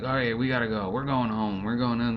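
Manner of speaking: lightly acted mom rounding up the kids; imitated hurried mother. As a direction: round up the kids, mildly hammed-up. Mothers hurriedly calling their kids away.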